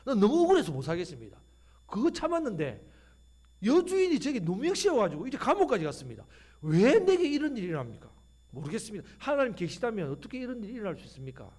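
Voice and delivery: Joseph pleading on the phone to his pastor, aggrieved; a lightly voiced wronged young man calling his pastor; complaining Joseph. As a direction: pour out the unfair treatment, voice rising. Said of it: "요셉이 목사님한테 전화합니다".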